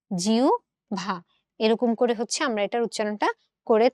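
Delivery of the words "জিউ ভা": জিউ ভা split in two, jiu then bha; syllable split. Shown as a demonstration. Teacher spelling out জিহ্বা to the class. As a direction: break it into জিউ and ভা. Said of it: "এটার উচ্চারণটা আমরা করি হচ্ছে".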